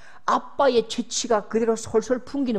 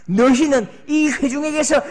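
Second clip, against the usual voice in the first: loud, high thundering decree; God thundering at Moses and Aaron; wrathful God; 7 semitones higher, 8 dB louder than usual. Acted. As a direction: proclaim judgement from on high.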